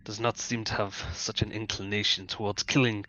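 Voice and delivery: lightly voiced predator weighing up the group; deliberate, formal phrases with long pauses; a hint of menace under courteous speech, a small chuckle near the end; measured, sinister stranger. Game master voices Grigori.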